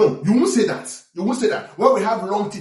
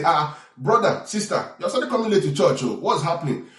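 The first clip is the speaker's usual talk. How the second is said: gentle pastor rebuke. Retold or imitated. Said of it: "pastor might not say it the way I just said it".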